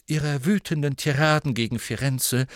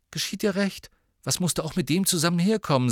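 higher, quick scolding; stern reproach; 7 semitones higher, faster than usual. A narrator's reading. Harry scolding Hermine over her date, stern. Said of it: "sagte er streng zu ihr".

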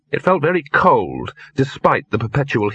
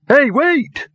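high, louder call to stop; calling after someone; 5 dB louder than usual. Acted. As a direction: call out to those leaving, pitched up. Victor calls after departing dogs.

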